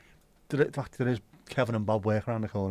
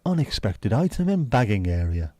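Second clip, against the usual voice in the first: robot checkout; 5 dB louder than usual. Retold or imitated. Imitating self-checkout machine.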